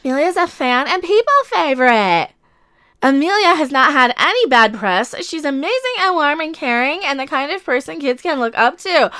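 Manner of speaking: mocking Valley Girl reading. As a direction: read it like a ditzy Valley Girl. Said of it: "Valley Girl mocking voice".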